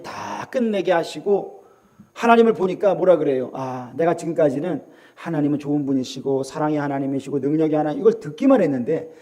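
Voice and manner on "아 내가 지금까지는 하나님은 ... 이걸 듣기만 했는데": Job's confession. Acted. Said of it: "라고 욥이 고백하는 거예요".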